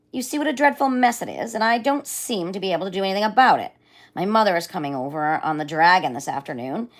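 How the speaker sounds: a vain lion complaining, then threatening; upset lion. Acted. Voices the fretful lion.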